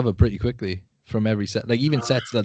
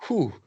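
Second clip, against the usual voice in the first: exhausted exhale, played out; acted winded puff; 5 semitones higher than usual. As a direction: puff out air as if spent. Acting breathless after a hard set.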